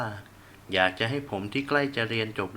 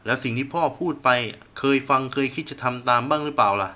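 sharp angry retort, louder; snapping at son; 3 semitones higher, 5 dB louder than usual. Acted. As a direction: bark it at the boy. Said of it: "พ่อหันมาตวาดใส่ผม". (พ่อตวาดใส่ลูก)

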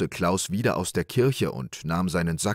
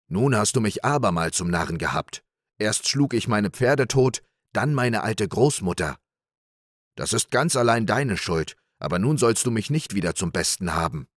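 angry accusation. Acted. Big Klaus accusing little Klaus, mildly angry. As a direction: blame him to his face, mildly heated.

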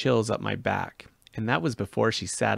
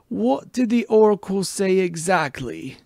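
urgent whisper; 9 semitones higher, 7 dB louder than usual. Acted. Chiron pressing for details.

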